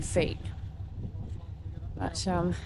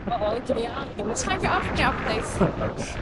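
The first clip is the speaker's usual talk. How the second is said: talking with a blocked nose; nose blocked, can't breathe through it; 3 semitones higher than usual. Real, not acted. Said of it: "I can't breathe through my nose".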